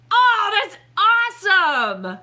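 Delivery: loud, high, drawn-out cheer; slow, elated shout; thrilled delight. Real, not acted. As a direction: stretch it out in real excitement. Delighted at who he is.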